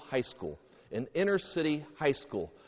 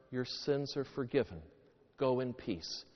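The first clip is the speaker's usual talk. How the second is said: quiet, tender absolution; gently forgiving; 2 semitones lower, 6 dB quieter than usual. Acted. Jesus to the weeping woman, gently forgiving. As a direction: absolve softly, dropping away at the end.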